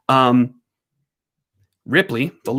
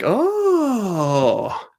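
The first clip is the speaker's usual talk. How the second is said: a high surprised oh; dog voiced as surprised; 6 semitones higher than usual. Voicing the big dog as he catches on, surprised. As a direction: voice the dog's dawning surprise. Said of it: "He was like".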